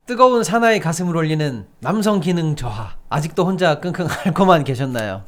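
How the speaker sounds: upbeat sales pitch read; hard sell ad. Acted. Reads a live ad.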